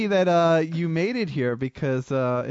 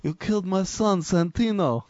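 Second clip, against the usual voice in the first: a bad, nasal mafia don, slightly higher and strained; Godfather impression; 5 semitones higher than usual. Podcast host shows the gauze-mouth Godfather to his co-hosts, bad impression. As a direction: mumble it like a mob boss with a mouth full of gauze. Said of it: "should I do my Godfather impression now".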